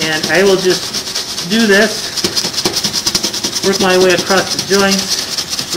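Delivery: muffled, slow, talking behind a mask; through a face mask. Real, not acted. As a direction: speak through a dust mask. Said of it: "It's hard to talk with the mask on".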